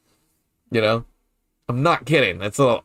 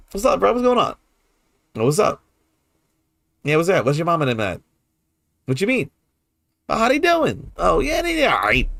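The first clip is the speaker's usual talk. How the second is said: much higher, easygoing New Orleans chatter; New Orleans street talk; 6 semitones higher than usual. Retold or imitated. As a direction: play both sides of a New Orleans chat, voice up high. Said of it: "that's kinda how we talk".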